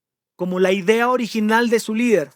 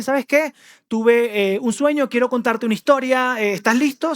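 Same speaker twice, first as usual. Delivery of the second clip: higher, brighter lead-in to a tale; eager storyteller; 4 semitones higher than usual. Acted. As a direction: draw the king in with a story. Nathan nervously approaching the king.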